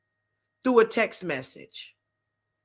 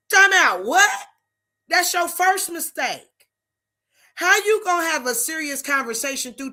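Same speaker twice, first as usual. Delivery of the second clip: disbelief; 6 semitones higher than usual. Real, not acted. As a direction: stop them cold in disbelief. Preacher reacts in disbelief.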